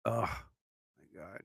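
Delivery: slow, soft yawn. Real, not acted. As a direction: sink into a tired yawn. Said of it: "I'm yawning like crazy".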